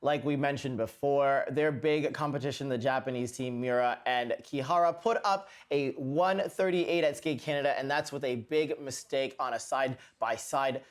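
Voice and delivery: light mock British accent over skating commentary; lightly faked British accent; recapping the Sheffield Grand Prix in a put-on British accent. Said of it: "This is my terrible accent".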